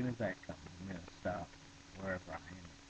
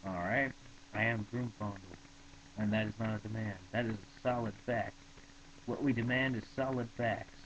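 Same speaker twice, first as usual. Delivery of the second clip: louder, pushy philosopher insisting; insistent demand; 2 semitones higher, 4 dB louder than usual. Acted. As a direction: hammer home the demand. Broomfondle insisting while reading.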